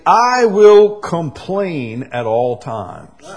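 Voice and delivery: a whining parody of the grumbler; mock complainer. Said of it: "I think many say".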